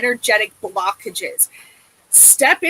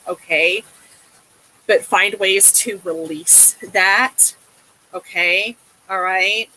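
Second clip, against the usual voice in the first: tender reassurance; 4 semitones lower than usual. Acted. Reader gently comforting a grieving client, low and tender. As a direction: soothe her like a dear friend.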